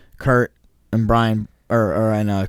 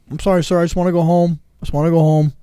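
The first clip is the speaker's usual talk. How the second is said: higher, pleading innocent voice; meek apology to cops; 6 semitones higher, faster than usual. Retold or imitated. To the cops, always his line: mock meek plea. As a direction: play it sweet and harmless for the officer. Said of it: "my line was always like".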